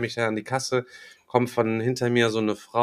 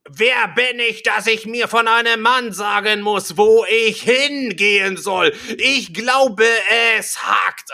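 high-pitched, indignant mock shrieking; imitated screaming; 9 semitones higher, 4 dB louder, slower than usual. Woman snapping back at the man in the queue, imitated screaming. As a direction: mimic an outraged rant, pitched way up. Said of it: "schrie die mich an".

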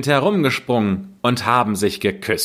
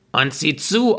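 witch coaxing; 7 semitones higher than usual. Acted. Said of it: "sagte die Hexe".

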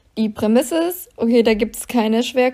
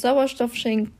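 choking on spit mid-word; swallowed wrong way; 3 dB quieter than usual. Real, not acted. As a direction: Sauerstoff schenken, choked off. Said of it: "ich hab mich verschluckt".

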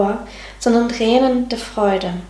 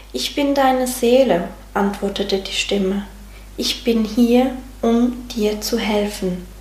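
story narration. Acted. Narrator reading a soul fairy tale to a listener, gentle storytelling. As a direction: tell it gently, like a bedtime tale.

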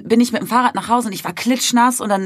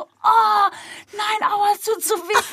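much higher hammed-up pained man; mock pained yelp; 13 semitones higher, slower than usual. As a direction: whine it in a high comic voice of a hit stranger. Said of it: "er so". (hoch und übertrieben gejammertes Aua)

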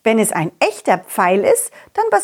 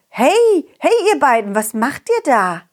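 calling out; 5 semitones higher than usual. Acted. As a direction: call out to the worms. Calling out to the worms.

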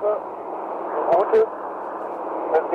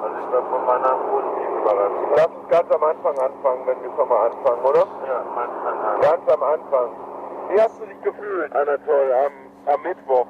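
put-on old cassette recording. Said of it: "Wir hören jetzt den zweiten Teil".

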